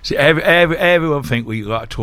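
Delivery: exaggerated Norfolk country accent. Shown as a demonstration. Guest mocking how everyone thinks locals talk, broad Norfolk accent. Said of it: "talk like that".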